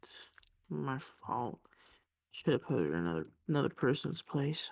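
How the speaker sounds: subdued. Acted. Junie answering Iris, low and subdued. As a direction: let the words sink, quietly.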